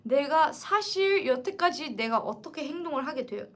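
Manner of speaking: ordinary talk, nothing marked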